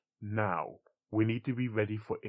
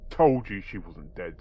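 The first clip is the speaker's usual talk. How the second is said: raised voice; 3 semitones lower, 7 dB louder, slower than usual. Acted. Coltstein over a demonic shriek.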